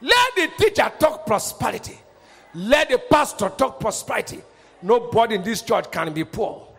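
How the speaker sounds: rousing prosperity declaration, each phrase starting strong; bold preaching declaration. Shown as a demonstration. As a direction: proclaim it over the congregation. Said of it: "That is how a pastor should be talking".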